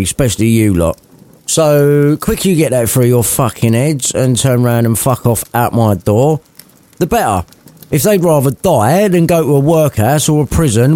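lightly voiced sweary miser; scornful Scrooge. Scrooge sending the collectors packing, lightly voiced. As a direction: tell them off contemptuously. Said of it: "met with more sarcasm".

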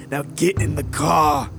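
a sudden barked command; shouted order. Acted. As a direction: snap the order at him. Gunpoint order, repeated.

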